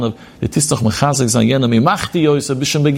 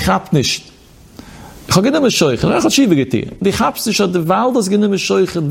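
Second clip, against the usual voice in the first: higher, protesting voice of the accused judge; defensive judge quoted; 5 semitones higher than usual. Retold or imitated. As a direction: plead your innocence, a little raised. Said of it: "Er sagt". (ein Richter verteidigt sich, leicht erhoben)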